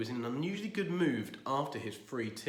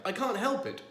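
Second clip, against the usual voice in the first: laughing; 11 semitones higher, 5 dB louder than usual. Acted. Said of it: "bursting out".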